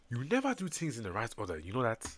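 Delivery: put-on corrected retake in an African accent. Redoing the line after getting it wrong, African accent. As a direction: say it as an African character would. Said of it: "Africans never talk like that".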